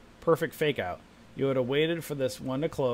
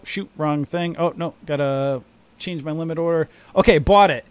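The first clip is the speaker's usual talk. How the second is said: hurried, louder panicky trader; mock panic; 5 dB louder than usual. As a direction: rush through it like a flustered newbie. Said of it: "Now you guys are like".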